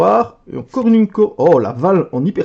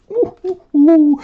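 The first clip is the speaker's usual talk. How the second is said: excited hoots; 10 semitones higher, slower than usual. Real, not acted. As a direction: hoot with glee. Excited by hyperfoil pull. (ouh ouh ravis, aigus)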